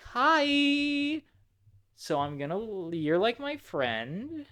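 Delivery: a hint of a jittery daycare attendant; anxious Sun voice. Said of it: "he's like".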